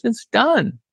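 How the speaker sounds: high, curt mock singer; imitating a singer. The singer ending the argument, curt mock voice. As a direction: shut it down flatly like the singer. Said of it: "He goes".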